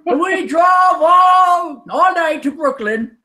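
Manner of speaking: put-on shouting old man, half singing. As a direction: rant like a cranky old guy. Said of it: "You sound like the old guys".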